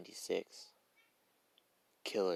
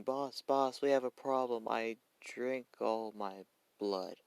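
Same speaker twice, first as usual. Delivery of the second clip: higher-pitched character calling to the boss; a touch of high, urgent complaint, easing at the end; lightly acted report of a problem; lightly voiced Toga; 3 semitones higher, slower than usual. Second Toga calls her boss.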